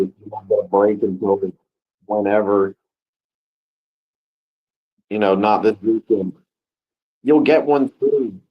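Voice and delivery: upbeat pep talk to viewers; motivational speech. Acted. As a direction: lift them up like a coach. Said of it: "the motivational speeches".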